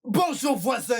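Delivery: high-pitched "Bonjour", falling through "voisin"; demonstrated greeting. Shown as a demonstration. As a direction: show how to greet, starting high. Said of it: "c'est comme ça".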